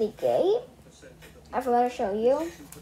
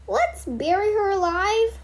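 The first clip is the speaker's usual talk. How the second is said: gleeful; 8 semitones higher, 3 dB louder than usual. Acted. Bean eager to bury creepy doll.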